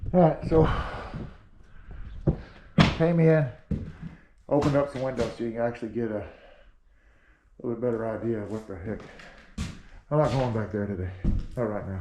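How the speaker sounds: muffled through a mask; talking through a dust mask; through a face mask. Real, not acted. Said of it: "I sound funny 'cause I got a mask on today".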